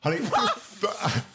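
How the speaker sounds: lightly voiced drag queen, sassy; Trixie Mattel impression. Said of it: "Foreign Policy Trixie Mattel".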